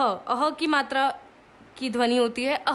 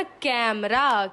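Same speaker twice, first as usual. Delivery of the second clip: slow spelled-out word; much slower than usual. Shown as a demonstration. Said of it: "इससे हमारा शब्द क्या बना".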